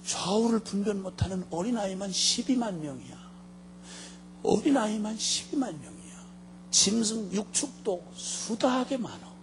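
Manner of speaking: softly spoken, compassionate appeal; tender pleading. Acted. God telling Jonah of Nineveh's children, softly pleading.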